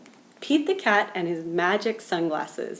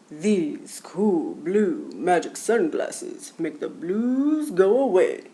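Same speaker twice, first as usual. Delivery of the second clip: Grumpy Toad voice; 4 dB louder than usual. Acted. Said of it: "He said".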